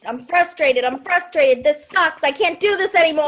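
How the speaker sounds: mock frustrated. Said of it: "the whole frustration piece".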